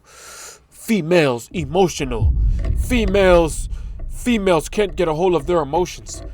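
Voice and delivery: lightly mocking dim-witted chant; brain-rot mimicry. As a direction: mimic a mindless stock complaint. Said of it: "your brain is just gonna go to".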